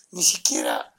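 low breathy whisper on ni siquiera; whispered aside. Real, not acted. Bitter aside about the sick child, whispered.

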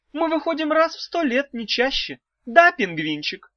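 high, sing-song wife voice; a high cooing old wife; wife's high voice. A narrator's reading. Wife teasing the trapped children, high and cooing.

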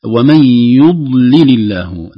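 "يضلل" slow and loud, with the dad not bounced; careful recitation. Shown as a demonstration. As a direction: recite "يضلل" smoothly, no qalqala. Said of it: "نحذر أيضًا من القلقلة". (بلا قلقلة في الضاد)

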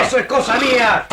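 curt angry comeback; defiant retort. Acted. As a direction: slam the question shut. Villain rebuffs the chief.

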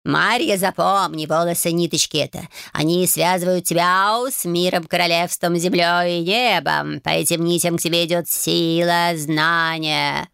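slow sing-song cat sermon; calm, preachy cat. Acted. Cat Bayun instructs Marya about hair, calm and preachy. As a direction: teach her like a wise old cat. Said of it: "спокойным, нравоучительным голосом пропел".

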